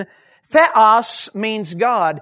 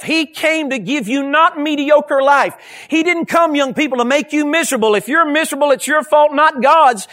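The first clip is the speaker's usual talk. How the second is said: higher preacher's delivery, punching the key words; impassioned preaching; 5 semitones higher, 4 dB louder than usual. Real, not acted. Preacher telling young people life is no misery, impassioned. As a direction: preach it with urgent conviction.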